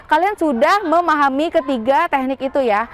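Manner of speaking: normal talking voice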